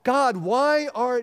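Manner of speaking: acted protest to heaven; angry lament. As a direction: demand answers from God in prayer. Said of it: "David admits his anger to God".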